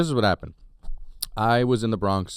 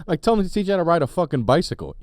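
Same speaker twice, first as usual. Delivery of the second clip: laughing repeat; 6 semitones higher, faster than usual. Retold or imitated. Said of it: "laughing repeat".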